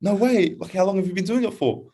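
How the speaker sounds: put-on high excited girlish voice; a thirteen-year-old girl gushing. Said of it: "And she goes".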